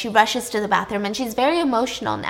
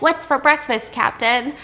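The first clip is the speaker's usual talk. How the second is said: playful morning tease; 4 semitones higher, 3 dB louder than usual. Retold or imitated. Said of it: "she's like".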